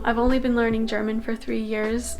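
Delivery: usual speaking voice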